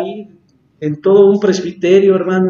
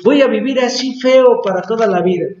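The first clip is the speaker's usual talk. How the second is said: higher-pitched mock lament; imitated resigned complaint; 4 semitones higher than usual. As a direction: voice a sufferer giving up, hammed-up. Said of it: "Usted a lo mejor dice". (imitando una queja resignada)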